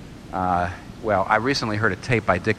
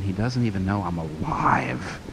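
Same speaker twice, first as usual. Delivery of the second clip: imitated Valley girl; 5 semitones lower, 5 dB quieter, slower than usual. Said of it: "American Valley girl".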